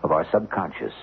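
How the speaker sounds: measured, musing storyteller voice; dramatic narration. A narrator's reading.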